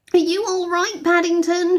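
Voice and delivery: high worried shout; shouting through the door. A narrator's reading. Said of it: "she shouted".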